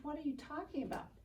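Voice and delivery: quick, high, soft burst of disbelief; asked fast in shocked surprise; startled question. Retold or imitated. Daughter stunned by her dad's reply, surprised.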